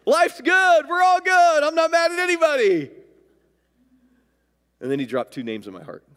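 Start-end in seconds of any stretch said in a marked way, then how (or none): 0.0-2.9 loud, high, giddy protest breaking out of a laugh; laughing, full of joy. Retold or imitated. Worshiper laughingly tells God he has no enemies, loud joyful protest. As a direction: whoop it out joyfully, acting it out. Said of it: "I started laughing. I was full of joy".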